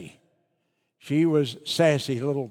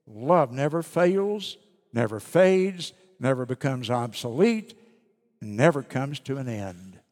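slow, weighty "never" each time; solemn scripture. Acted. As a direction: let each "never" land slowly. Reads scripture aloud.

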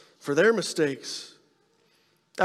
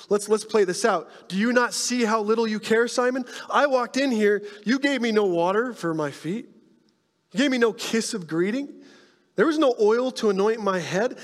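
raised, pointed rebuke to the host; Jesus rebuking Simon; 4 semitones higher than usual. Retold or imitated. Jesus confronting his host Simon, in a raised rebuking voice. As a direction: press Simon on his failed hospitality.

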